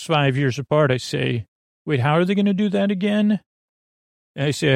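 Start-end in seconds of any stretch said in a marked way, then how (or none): 1.9-3.4 high, quick amazed question; baffled by the trick, asking fast; mock astonished wonder. Amazed self-quote at magic show.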